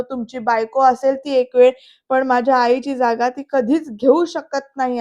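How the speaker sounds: mock-shout it at the father; retold shouting. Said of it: "असं ओरडून सांगतोय तो". (ओरडून सांगितल्याची नक्कल, थोडी जोरात)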